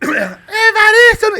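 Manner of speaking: high, slow, drawn-out shout; Evaristo impression. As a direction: yell the name like Evaristo. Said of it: "Imitando Evaristo".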